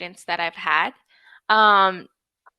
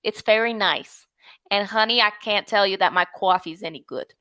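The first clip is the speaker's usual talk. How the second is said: put-on New York accent. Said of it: "the New York accent".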